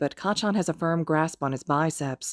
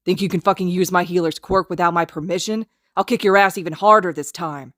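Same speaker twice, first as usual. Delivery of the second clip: menacing threat; 3 semitones higher, 6 dB louder than usual. Acted. Kacchan threatens Haru.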